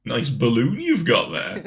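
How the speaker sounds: hammed-up teasing threat; mock taunting. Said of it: "you'll be here like".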